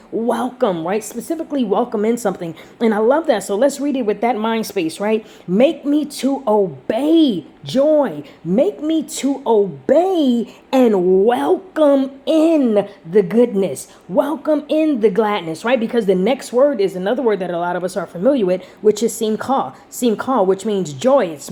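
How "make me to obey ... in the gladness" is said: slow verse reading, stretched key words; emphatic scripture reading. Real, not acted. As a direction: proclaim the verse slowly, word by word. Rereads verse with new meaning.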